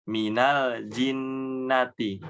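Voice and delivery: jinnati with clean j, no breath; slow, clear Minal jinnati; crisp jim. Shown as a demonstration. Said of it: "Harus jelas".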